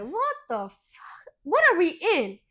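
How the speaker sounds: hushed, shocked whisper; alarmed whisper. Retold or imitated. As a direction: whisper in disbelief, not wanting to be heard. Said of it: "I'm looking around like".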